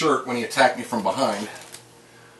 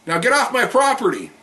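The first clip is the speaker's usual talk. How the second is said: higher-pitched mock yell, a little louder; retold yell; 8 semitones higher, 3 dB louder than usual. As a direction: call it out as a retold order to leave. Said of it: "I yelled out to him".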